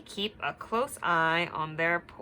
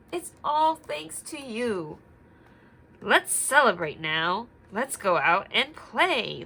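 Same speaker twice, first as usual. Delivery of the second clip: much higher, loud happy bear shout; joyful cry; 3 semitones higher, 6 dB louder than usual. Acted. Bear cries out to friends, loud and overjoyed. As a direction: burst out cheering, all better. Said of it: "Bear cries".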